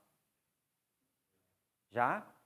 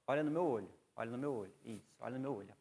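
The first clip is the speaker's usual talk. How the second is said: calm eye-contact instruction; 4 semitones lower, 5 dB quieter than usual. Shown as a demonstration. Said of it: "você vai falar".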